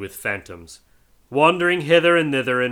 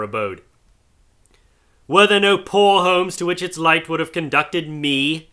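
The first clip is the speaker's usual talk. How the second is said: grieving ghost; 2 semitones higher, 5 dB louder than usual. Acted. Marley's ghost grieving to Scrooge. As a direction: pour out the remorse.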